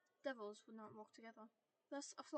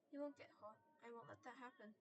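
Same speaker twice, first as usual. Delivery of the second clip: soothing; 5 dB quieter than usual. Acted. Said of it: "tried to sound soothing".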